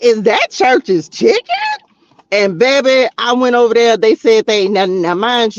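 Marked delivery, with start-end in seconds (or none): 0.0-1.4 slow, excited "Is that Church's Chicken?"; mock thrilled call-out; excited discovery. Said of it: "I was like".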